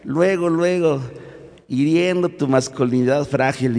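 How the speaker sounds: high mocking laugh before the jab; mocking cousin laugh. Young cousin mocking her cousin's fragile masculinity, laughing high. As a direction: tease him with a high cackle. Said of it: "una primita me dice".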